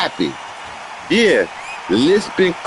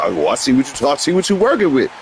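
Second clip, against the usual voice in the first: a hint of a coy girl, slightly lower; 3 semitones lower than usual. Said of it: "white girl with the".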